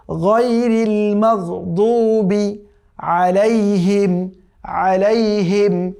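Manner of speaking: drawn-out tajweed chanting; slow Quran recitation. Shown as a demonstration. Teacher reciting the verse for students, slow chant. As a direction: recite each word slowly and carefully.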